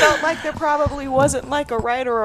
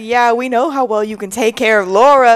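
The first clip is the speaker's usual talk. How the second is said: teasing; 9 dB louder than usual. Retold or imitated. Teasing quote to Carlo.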